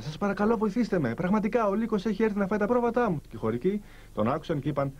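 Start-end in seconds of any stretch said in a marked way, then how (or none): 0.0-3.2 higher, urgent storybook plea at normal volume; acted cry for help. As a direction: plead with the villagers, lightly acted. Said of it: "Και φώναζε".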